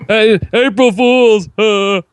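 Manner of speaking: high, slow, breathy put-on voice. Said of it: "talk in this breathy voice".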